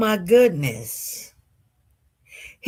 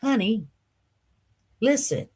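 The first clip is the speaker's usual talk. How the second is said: soothing; 7 dB quieter than usual. Retold or imitated. Date calming the crying woman.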